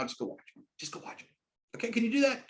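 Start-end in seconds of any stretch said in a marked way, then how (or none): 0.0-0.6 "Just go watch it" said much softer; quieter. Shown as a demonstration. Acting out an invite to a friend. 0.8-1.3 "Just go watch it" breathed out in a whisper. Shown as a demonstration. Acting out an invite to a friend.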